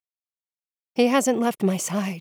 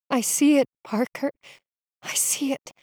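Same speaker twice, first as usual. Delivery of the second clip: rasp; 5 semitones higher than usual. A narrator's reading. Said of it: "I rasp".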